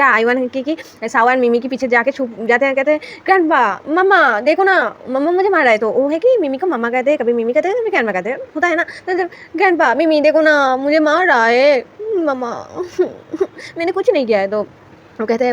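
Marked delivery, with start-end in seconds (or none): 3.2-5.8 put-on whiny child. Child hiding, complaining to grandparents. 9.6-14.5 put-on whiny child. Child complaining, hiding behind grandparents.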